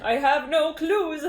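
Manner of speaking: loud, high, slow and giggly; laughing cluelessness. Real, not acted. Reader laughing at their own accent, amused cluelessness. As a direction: draw it out high, breaking into laughter.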